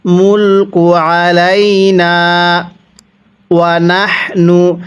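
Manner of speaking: drawn-out chanted recitation; slow Quran recitation. Shown as a demonstration. Teacher recites for students to copy, slow chant. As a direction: stretch the vowels and hum the nasal. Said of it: "তাহলে কিভাবে পড়ব?".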